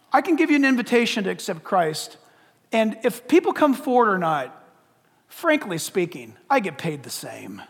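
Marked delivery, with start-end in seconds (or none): 5.3-7.6 lower, offhand sarcasm; sarcastic. Real, not acted. Preacher tells congregation their response won't change his pay, sarcastic. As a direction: say it with dry indifference, dropping low. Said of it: "I'm being very sarcastic right now".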